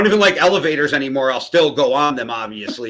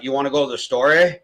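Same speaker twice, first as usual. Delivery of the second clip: put-on Canadian accent; 2 semitones lower than usual. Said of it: "My cousins say A after everything".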